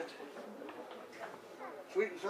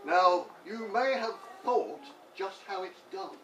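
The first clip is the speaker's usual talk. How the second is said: comic verse recital. Pretend. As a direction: declaim it like a homemade poem. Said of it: "I feel the urge of poetry".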